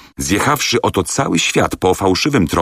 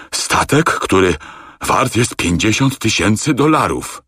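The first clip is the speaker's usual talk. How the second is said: higher, strained words; choked indignation; 5 semitones higher than usual. A narrator's reading. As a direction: struggle to speak. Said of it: "ledwo wymawiając zgłoski".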